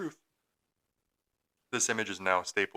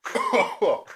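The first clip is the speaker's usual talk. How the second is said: disgusted gasp; 4 semitones higher, 4 dB louder than usual. Real, not acted. Reacting to nasty drink.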